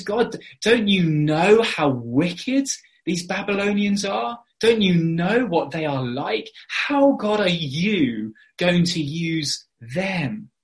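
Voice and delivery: slow, pressing questions aimed at God; crying out. Retold or imitated. Preacher voices Habakkuk protesting the Babylonians, crying out. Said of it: "he cries out and he says".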